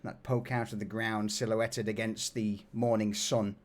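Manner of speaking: measured narration with long pauses; unhurried tabletop storyteller; game master's scene setting. Acted.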